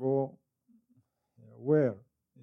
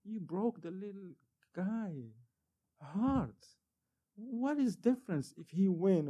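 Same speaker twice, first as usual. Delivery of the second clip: mild scolding wife; 4 semitones higher, 4 dB quieter than usual. Retold or imitated. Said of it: "she's like".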